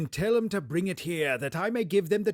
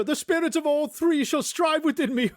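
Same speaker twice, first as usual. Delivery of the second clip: laughing vow; 10 semitones higher, 3 dB louder than usual. Acted. Scrooge repeats the vow laughing.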